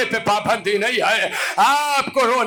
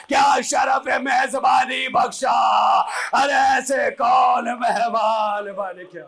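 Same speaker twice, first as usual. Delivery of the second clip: climactic preaching; 3 semitones higher than usual. Acted. Preacher voices Shiri greeting Husain's head, slow wailing. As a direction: stretch each cry out in grief.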